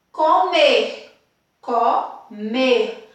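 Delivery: comer split up, strong final MER; deliberate teacher's comer, MER stressed. Shown as a demonstration. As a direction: lean on the last syllable of comer. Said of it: "Qual é a sílaba que eu falo com mais intensidade?".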